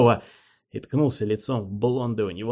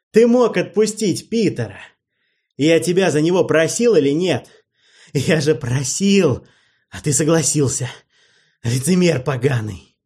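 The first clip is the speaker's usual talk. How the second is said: angry yell; 6 semitones higher, 5 dB louder than usual. Acted. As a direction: shout it, much higher and louder. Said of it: "ору". (гневный крик, гораздо выше и громче)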